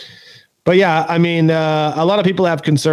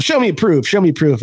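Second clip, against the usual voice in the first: mocking a troll; 5 semitones higher than usual. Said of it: "handling those kind of people".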